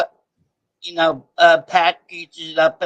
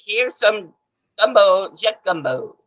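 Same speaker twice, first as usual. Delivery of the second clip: a slow, hammed-up Cajun accent, higher and louder; Cajun accent impression; 4 semitones higher, 5 dB louder than usual. Caller asked by the host for his Cajun accent, mock Cajun accent. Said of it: "your Cajun accent impression".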